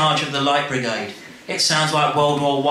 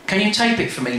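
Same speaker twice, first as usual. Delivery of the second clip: put-on child's plea; 7 semitones higher, faster than usual. Child asks Lee.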